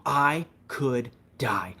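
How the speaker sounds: slow, breathy whispered warning; whispered dramatic fear; Treadwell whisper. Retold or imitated. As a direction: hush it like danger is close. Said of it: "That was my Timothy Treadwell impression".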